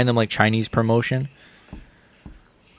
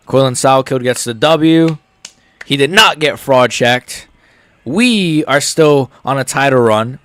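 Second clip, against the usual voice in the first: slow, louder proclamation; hyped announcement; 5 dB louder, slower than usual. Real, not acted. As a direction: announce it like a triumph. Hype call after a fight win.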